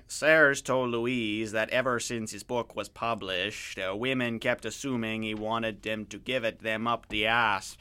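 crude attempt at a French Canadian accent; joking, drawn-out French Canadian accent. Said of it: "a crude attempt at a French Canadian accent".

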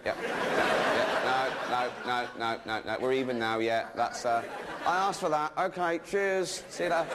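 lightly voiced smug snake, fake contrite; sly snake. Snake pretending to accept punishment, smug fake contrition. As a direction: play the caught-out crook winking.

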